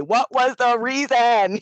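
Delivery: a light imitation of a rapper, slow and drawn out; a rapper's quote. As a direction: lightly mimic a rapper, stretching the words. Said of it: "as Cardi B would say".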